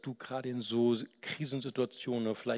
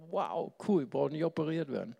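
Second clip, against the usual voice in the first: higher and quick, delighted; happy relief; 4 semitones higher than usual. Retold or imitated. Patient retelling his joy at the doctor's news, excited. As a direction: retell your own cheer at good news. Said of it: "Da war ich so glücklich".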